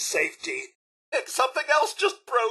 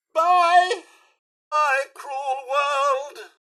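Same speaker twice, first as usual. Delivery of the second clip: a loud high bye, then a drawn-out slow lament; hammed-up goodbye to the world; mock-tragic last words, stretched out slowly; melodramatic farewell; 4 semitones higher, 4 dB louder, much slower than usual. Robot about to explode, farewell.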